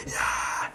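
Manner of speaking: breathy, voiceless mock roar; hushed crowd yell; imitated crowd cheer. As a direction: fake a far-away cheering crowd softly.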